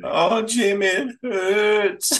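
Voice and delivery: hammed-up melodramatic pain; mock pained plea. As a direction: ham up a fake hurting moan. Mocking Mitchell's fake pain.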